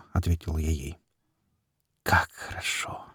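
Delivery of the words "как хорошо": soft breathy whisper. A narrator's reading. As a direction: whisper it close and low. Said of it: "прошептала в ответ она".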